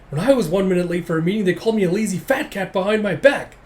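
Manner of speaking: hammed-up outraged grumbling; mock indignation. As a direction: rattle out an aggrieved comic complaint. Onlooker protests unfair treatment, acted.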